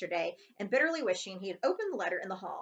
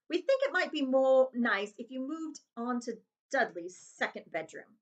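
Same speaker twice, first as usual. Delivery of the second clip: forced niceness; 4 semitones higher, 3 dB louder than usual. Acted. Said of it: "forced his face to smile".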